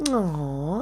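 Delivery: drawn-out mock-sympathetic aw; pitying coo. Speaker imitating woman rubbing her leg, pitying coo. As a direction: imitate someone cooing with pity. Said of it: "pitying me".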